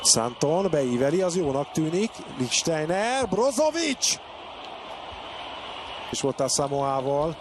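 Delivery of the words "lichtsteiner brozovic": high called name; excited. Real, not acted. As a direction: call the name rising. Attack builds in play-by-play.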